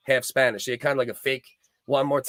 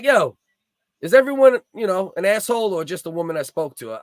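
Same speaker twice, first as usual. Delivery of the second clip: retold furious yell at the operator, much higher and louder at the start; angry yelling; 4 semitones higher, 5 dB louder than usual. Streamer replaying his rant at the dispatcher, angry yell. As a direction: bark it at the 911 operator. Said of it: "Started cursing him out".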